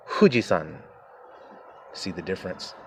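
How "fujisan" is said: Fujisan with a soft h-like f, Japanese style; Japanese pronunciation. Shown as a demonstration. Preacher honoring the Japanese name, Japanese-style. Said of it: "They say Mount Fujisan".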